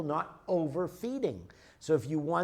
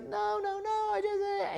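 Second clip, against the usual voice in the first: much higher, a flustered no, no, no; high protesting wife. Retold or imitated. Wife cutting off husband's lawsuit plan, high flustered protest. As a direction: squeak out a frantic protest, voice jumping up.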